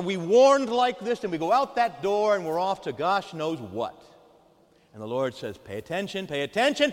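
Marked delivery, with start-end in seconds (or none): 5.6-6.9 building to a shout. Acted. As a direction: pay attention, ogni volta più forte. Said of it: "gets louder and louder".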